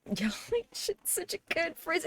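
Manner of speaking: high, slow and soft, like a tiny cartoon voice; squeaky high voice. Streamer repeats the phrase to chat in a squeaky high voice.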